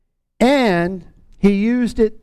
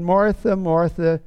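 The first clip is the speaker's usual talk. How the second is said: tender; slower than usual. Acted. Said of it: "He's not scolding her".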